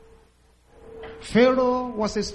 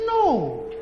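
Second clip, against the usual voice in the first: retold shout; 4 semitones higher than usual. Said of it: "She shouted".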